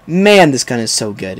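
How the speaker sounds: ordinary talk, nothing marked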